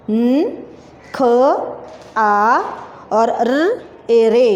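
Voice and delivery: careful letters for pupils; spelling out letters. Shown as a demonstration. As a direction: build निखारे letter by letter. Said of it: "क्या बना".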